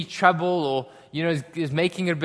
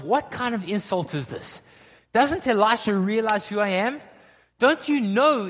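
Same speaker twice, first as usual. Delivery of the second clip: indignant Naaman; 4 semitones higher than usual. Acted. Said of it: "Naaman is thinking to himself".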